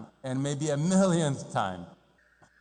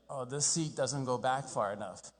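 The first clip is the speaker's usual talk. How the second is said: grumbling flyer; 6 dB quieter than usual. Retold or imitated. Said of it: "I'm just like".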